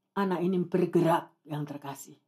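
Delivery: low, soft, falling to very quiet; hushed revelation. Real, not acted. Preacher tells the congregation the child moved, hushed revelation. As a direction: let the miracle land gently and low. Hushed first telling of the miracle.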